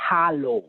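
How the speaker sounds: "hello" with an open ah, like "hah-loh"; katakana English pronunciation. Shown as a demonstration. Showing how her daughter spoke, "hello" in katakana style as "hah-loh". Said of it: "spelled in katakana".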